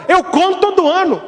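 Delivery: put-on high, frail-sounding old woman; old lady voice. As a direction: play the little old lady answering the priest.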